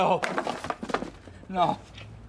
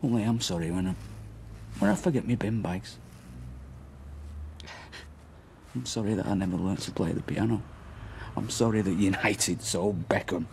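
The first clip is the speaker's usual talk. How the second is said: bitter sarcasm; 13 semitones lower, 5 dB quieter than usual. Acted. Bitter mocking list.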